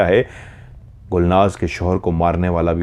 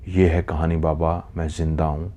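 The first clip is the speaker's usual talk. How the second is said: quiet, trailing-off delivery; hushed, understated telling to an elder; subdued confession; 3 semitones lower, 6 dB quieter than usual. Acted. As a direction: softly end a painful account. Survivor ends her account to elder.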